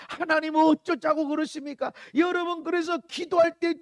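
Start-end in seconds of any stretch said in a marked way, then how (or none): 0.1-1.9 emphatic, protesting plea; crying out to God. Acted. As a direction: demand an answer from God. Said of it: "막 부르짖고 부르짖다". (하나님께 따지듯 부르짖기)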